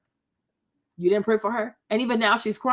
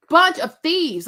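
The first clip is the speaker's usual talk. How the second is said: repeated insult, louder and higher; louder outrage; 4 semitones higher, 3 dB louder, slower than usual. Real, not acted. Calling the guests thieves again, louder and higher. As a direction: punch it out indignantly.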